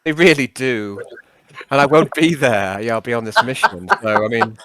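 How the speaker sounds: lightly voiced old-chap character; halting, over-polite character request; Nixius, politely wheedling. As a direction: coax a pal into minding the team. Nixius presses Yarn.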